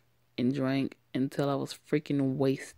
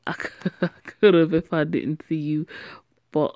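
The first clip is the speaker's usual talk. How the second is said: laughing; 4 dB louder than usual. Acted. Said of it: "Uh, wait, no".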